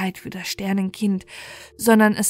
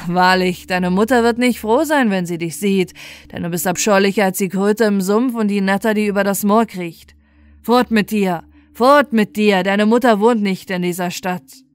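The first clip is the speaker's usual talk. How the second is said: louder, harsh soldier chasing off a beggar; gruff guard, growing louder on "fort mit dir"; scornful soldier; 5 dB louder than usual. Acted. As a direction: sneer and bark him away. Soldier drives the child away.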